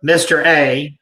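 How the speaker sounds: normal talking voice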